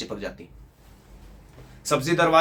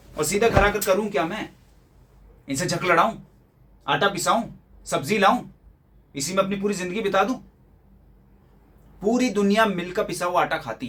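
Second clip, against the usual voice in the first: indignant protest; 4 semitones higher than usual. Acted. Son protests against demanded household chores.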